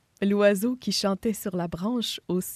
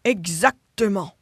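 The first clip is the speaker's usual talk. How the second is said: deep hippo voice; 3 semitones lower, 3 dB louder than usual. Acted. Hippo character voice.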